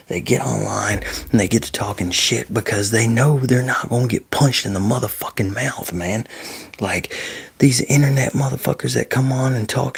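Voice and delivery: real irritated rant, stressing the swear words; worked-up, sweary griping; pissed off. Real, not acted. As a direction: vent your annoyance at online trash-talkers. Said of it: "that shit fucking pisses me off".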